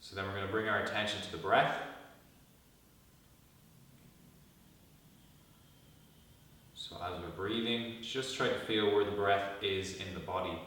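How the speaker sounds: calm guided meditation with long pauses; guided body scan. Real, not acted. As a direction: lead them gently into stillness, pausing between instructions.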